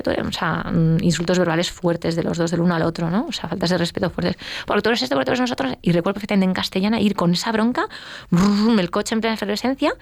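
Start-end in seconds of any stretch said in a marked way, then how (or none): 4.7-5.7 higher, fast, rattled-off accusations; mock heated quarrel. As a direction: fire off the insults quickly. Cita los insultos de la bronca. (bronca imitada, rápida y aguda)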